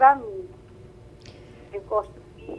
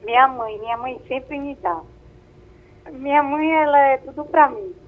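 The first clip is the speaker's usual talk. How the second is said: over a landline phone; 3 dB louder than usual. Real, not acted. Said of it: "tá com a gente aqui ao telefone".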